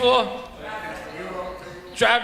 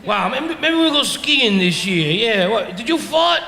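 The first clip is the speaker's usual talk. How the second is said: slow, awed, mock-dreamy tourist voice; gullible tourists; slower than usual. Tourists driving past the dump, mock-awed and slow. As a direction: ham up the dazzled tourists. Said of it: "tourists were driving by going".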